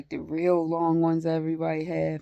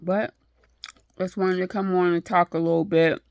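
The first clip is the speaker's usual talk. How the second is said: talking through a yawn; mid-yawn, tired words; 3 dB louder than usual. Real, not acted. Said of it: "Sorry for yawning".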